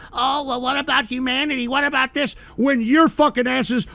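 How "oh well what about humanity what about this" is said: a touch of whiny mockery, softer; half-hearted mock whine about humanity; mock moaning. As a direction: lightly mimic the pacifists' moaning. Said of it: "wanna piss and moan about".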